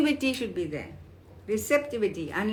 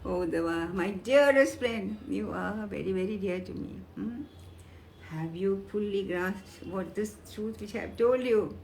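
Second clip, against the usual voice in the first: sweet and kind. Retold or imitated. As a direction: speak it kindly to a dear friend. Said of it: "Bhagavan so sweetly, so kindly, he says".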